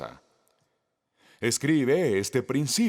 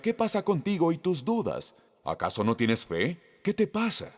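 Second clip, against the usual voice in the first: imitating a stern rebuke, higher; mock scolding; 4 semitones higher than usual. Jesus scolding Peter for his doubts, mock reproachful. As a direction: play an exasperated teacher scolding, pitched up. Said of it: "Como si Jesús dijera".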